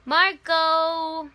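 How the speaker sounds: loud call across the set. Shown as a demonstration. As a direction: call it out like the game. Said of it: "say Marco".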